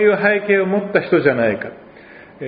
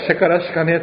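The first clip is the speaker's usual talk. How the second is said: mock Oita dialect; 2 semitones higher, faster than usual. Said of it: "いくら僕が".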